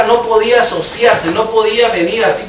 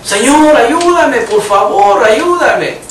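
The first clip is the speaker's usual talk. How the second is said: desperate cry for help; 3 semitones higher, 4 dB louder, much slower than usual. Retold or imitated. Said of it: "quizás alguno en la cárcel".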